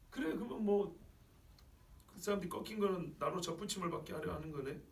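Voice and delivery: mildly sceptical concession; acted offhand, displeased acknowledgement; cynical, grudging. Preacher voicing Gentiles hearing of broken branches, cynical. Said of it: "좀 냉소적이고 못마땅한 목소리처럼".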